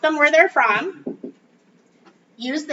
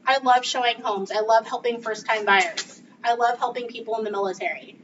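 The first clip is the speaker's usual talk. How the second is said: smiling; 3 semitones lower than usual. Shown as a demonstration. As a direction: say it with a smile. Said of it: "smile when you say this".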